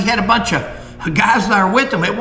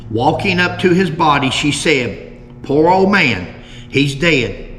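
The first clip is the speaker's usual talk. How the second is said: put-on measured old-account narration; reading aloud; 3 semitones lower than usual. Host reads the last article on Jim's killing, measured narration. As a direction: read it out in deliberate, separated phrases.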